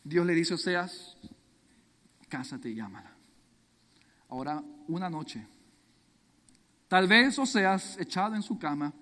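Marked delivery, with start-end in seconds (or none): 2.3-3.1 low, very soft, almost breathed out; a quiet, weighty word from God; hushed divine command. Acted. God quietly telling Hosea to marry her, hushed.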